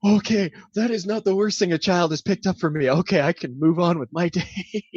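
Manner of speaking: high, loud comic dismay; mock alarm. Man hearing a kid repeat his joke, mock alarm. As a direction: cry out in mock horror, then talk yourself down. Horrified reaction to child copying him.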